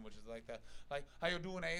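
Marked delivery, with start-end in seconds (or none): 1.2-1.8 light East Coast Canadian lilt; Canadian accent. Acted. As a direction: put on an island Canadian accent. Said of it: "the island that has the Canadian accent".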